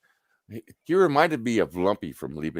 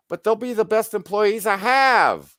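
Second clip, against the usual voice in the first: higher, louder objection; indignant protest; 14 semitones higher, 7 dB louder than usual. Retold or imitated. Supervisor protesting the ban on hiring the girls, higher and louder. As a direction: push back in disbelief.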